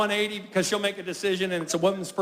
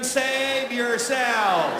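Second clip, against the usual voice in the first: weak whisper-like; 2 semitones higher, much slower than usual. Acted. Starving husband to children.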